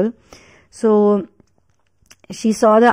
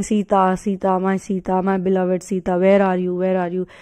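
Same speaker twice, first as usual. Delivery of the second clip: lightly voiced longing; 2 semitones lower, 5 dB quieter than usual. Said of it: "he would cry, he would feel so sad".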